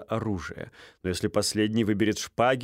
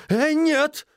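much higher, loud; high scoffing no; 5 dB louder than usual. A narrator's reading. Стольский rejecting Стужев's claim, high and loud. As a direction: cut him off, scoffing. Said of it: "проговорил Стольский".

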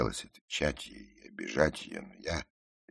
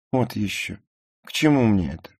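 higher, louder scornful brush-off; dismissive; 11 semitones higher, 10 dB louder than usual. A narrator's reading. Ruth brushes off the narrator's question about her, dismissive. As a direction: wave the question away with disdain. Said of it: "пренебрежительно ответила она".

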